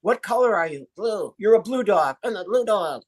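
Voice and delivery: a hint of a two-voice dummy act; mild ventriloquist dialogue; oracle trick demo. Shown as a demonstration. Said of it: "so I tricked you".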